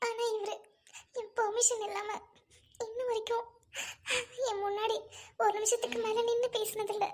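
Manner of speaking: soft, halting private reflection; hushed inner monologue. Acted. Wife alone pondering her patient husband, hushed and troubled. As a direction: think it aloud softly, with long pauses.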